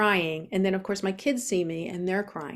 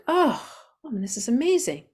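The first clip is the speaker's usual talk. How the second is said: delighted discovery; 5 semitones higher than usual. Retold or imitated. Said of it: "I'm like".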